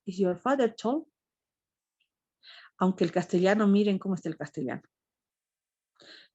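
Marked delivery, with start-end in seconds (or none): 0.0-1.0 "Is your father tall?" as a model question rising on "father"; correct question. Shown as a demonstration. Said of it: "lo correcto es".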